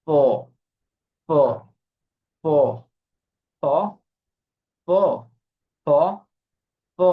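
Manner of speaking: drilled f sound demo; f with lip and teeth. Shown as a demonstration. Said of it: "নিচের ঠোঁট এবং উপরের দাঁত এইভাবে বলি".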